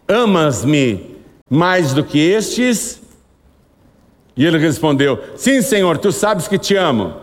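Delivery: measured Bible reading voice; scripture reading. Acted. Preacher reading John to the church, measured. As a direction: read the verse slowly to the congregation.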